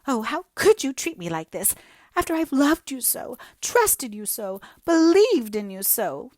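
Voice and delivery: high, loud, tearful pleading; voice breaking. Acted. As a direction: plead as if about to cry. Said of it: "Hazel's voice broke".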